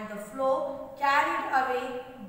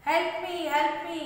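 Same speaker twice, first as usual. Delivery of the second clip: higher, pleading call of help me; acted shout for help; 5 semitones higher, 4 dB louder than usual. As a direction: cry out to anyone nearby. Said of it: "Then the ant started shouting".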